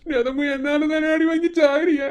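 slow, tearful grief; slow crying. Acted. Daughter crying to her absent mother, slow and tearful. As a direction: weep it out slowly.

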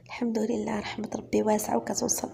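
soft, hushed calm reply; quiet, calm reassurance. Acted. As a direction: answer gently, almost a whisper. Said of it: "قالت لها رحمة بهدوء".

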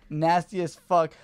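slow, loud disgusted jab; angry texter. Retold or imitated. Stranger texting about the toilet, slow loud disgust. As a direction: drag it out in disgust. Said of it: "He goes".

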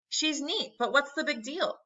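put-on high-pitched boyish questioning; puzzled. A narrator's reading. Boy asking uncle about the fuss, high and puzzled.

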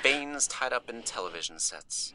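voiceless, hushed recital; eerie whisper. Acted. Speaker reciting grim verse over pleas, whispered. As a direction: breathe it like a curse.

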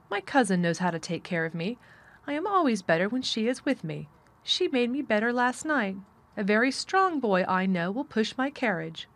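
put-on lofty, confident boyish voice; imperious boy. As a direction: declare it with a young rajah's assurance.

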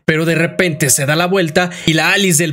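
animated storytelling, pitched above the chatty voice; dramatic game-recap narrator; story narration. A narrator's reading. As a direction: recount a dark tale with emphatic flow.

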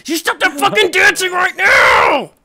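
mock yell. Real, not acted. Yelling at a dancing player.

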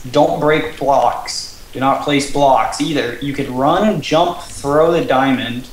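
slow, measured instruction read; reading rules aloud. Real, not acted. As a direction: read each rule out deliberately. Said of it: "while I read the rules".

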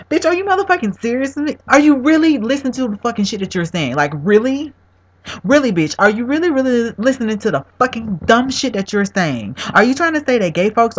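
angry disbelief. Real, not acted. Furious rant at the preacher.

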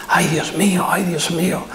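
whispered, tearful mock lament; imitating tearful lament. Judge imitating a crying old widow lamenting, whispered. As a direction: breathe it out like a weeping old widow. Weeping old woman voiced in anecdote.

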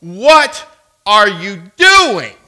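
loud, high angry demand. Retold or imitated. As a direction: shout it slowly in outrage, imitating an angry driver. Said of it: "in this angry tone".

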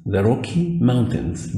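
very slow, drawn-out repeat. Shown as a demonstration. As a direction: stretch it out for the class. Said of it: "آه".

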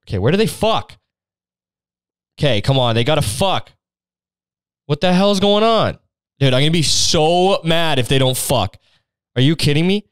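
high, whiny, impatient outburst; impatient excitement. Real, not acted. Impatient reader wanting the sex.

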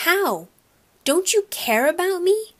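high, wounded, accusing plea; hurt pleading. A narrator's reading. Boy near tears confronts mother, hurt and pleading.

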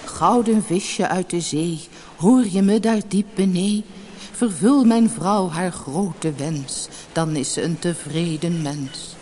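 slow rhymed summons; drawn-out, rhythmic call to the sea. A narrator's reading. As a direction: call it out like a measured verse. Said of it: "riep hij".

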